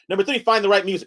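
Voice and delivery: NUMBER THREE, FIND THE RIGHT MUSIC rattled off quickly; hurried presenter listing the last point; fast mock lecture. Shown as a demonstration. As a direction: rush the line against a timer. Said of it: "that was pretty fast".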